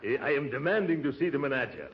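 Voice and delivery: hammed-up Brazilian accent. Disguised uncle greeting the receptionist, mock Brazilian accent. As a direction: play the suave Brazilian baritone. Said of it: "don't forget your Brazilian accent".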